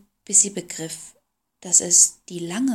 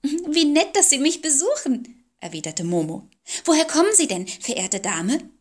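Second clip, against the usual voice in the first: put-on polite hostess girl; 7 semitones higher than usual. A narrator's reading.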